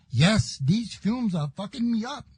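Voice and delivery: put-on faint immigrant accent, barely shifted from his own voice; hint of a broken-English immigrant accent. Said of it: "in a barely discernible English dialogue or dialect".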